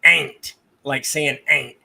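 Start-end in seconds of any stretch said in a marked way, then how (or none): 0.1-0.5 loud Southern twang on one word; Southern redneck accent. Retold or imitated. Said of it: "it would be some Southern redneck". 1.5-1.8 imitated Southern twang; Southern redneck accent. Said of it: "it would be some Southern redneck".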